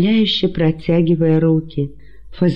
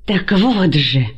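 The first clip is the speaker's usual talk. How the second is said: яростный крик; 3 semitones higher, slower than usual. A narrator's reading. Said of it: "яростно закричал Антигон".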